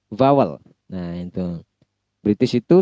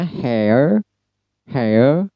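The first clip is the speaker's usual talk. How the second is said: hair as heh-uh, no R; British hair, R dropped; 2 semitones higher than usual. Shown as a demonstration. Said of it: "Pada British menggunakan E E".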